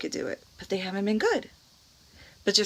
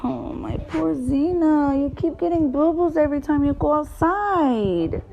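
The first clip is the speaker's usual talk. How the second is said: pitying the dog; 6 semitones higher than usual. Real, not acted. Mother pitying the dog's boo-boos.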